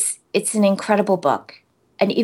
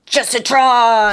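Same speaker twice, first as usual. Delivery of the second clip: slow, loud drawn-out robot voice; 3 semitones higher, 5 dB louder, slower than usual. Shown as a demonstration. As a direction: announce the name like a robot. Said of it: "You should have done that in a robot voice".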